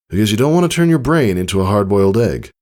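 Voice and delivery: lightly voiced father, quick and half joking; father's dry warning. Father warning daughter, quick dry voice. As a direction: tease her with a grim image, briskly.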